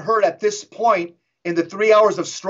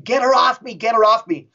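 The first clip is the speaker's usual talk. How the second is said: higher-pitched mock yell; mildly raised voice of a pained spirit; retold demon yell; 4 semitones higher than usual. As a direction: imitate a possessed woman crying out. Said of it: "kept yelling".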